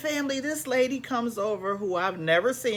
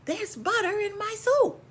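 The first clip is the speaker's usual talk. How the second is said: silly voice; 12 semitones higher than usual. Pretend. Absurd aside in odd voice.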